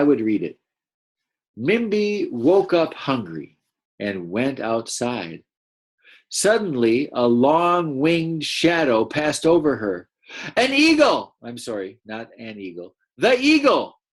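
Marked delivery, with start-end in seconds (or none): 1.6-10.1 slow, expressive read-aloud; story narration. A narrator's reading. Teacher reads story aloud slowly. 10.6-11.4 high startled cry of fear; wrong take, afraid cry. Shown as a demonstration. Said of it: "say that in the voice of Mimbi". 13.2-14.0 high, loud frightened cry "The eagle!"; afraid cry. Shown as a demonstration. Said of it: "say that in the voice of Mimbi".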